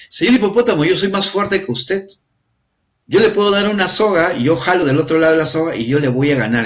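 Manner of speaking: spricht hoch und angeberisch als kleine Schildkröte. Acted. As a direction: prahle hoch vor dem großen Tier. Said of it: "le decía al hipopótamo, la tortuga".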